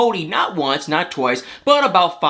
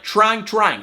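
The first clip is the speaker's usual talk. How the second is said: "trying, trying" said higher, the second one stressed; doubled emphasis; 4 semitones higher than usual. Real, not acted. Vlogger explains Meri really tries, emphatic repeat. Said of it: "when I say trying, I mean".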